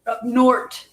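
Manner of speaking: NORTH said as "nort", Minnesotan style; light Minnesotan accent on "up north". Shown as a demonstration. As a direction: end NORTH on a hard Minnesotan T. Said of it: "gotta say it like a Minnesotan".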